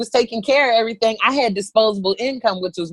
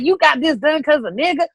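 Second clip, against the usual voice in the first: put-on teasing girlfriends; 8 semitones higher than usual. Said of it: "they was like".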